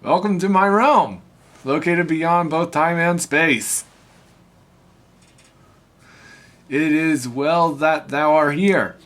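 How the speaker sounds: booming echoing villain monologue. Acted. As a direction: speak like an ancient deity. Reads Arceus's lines.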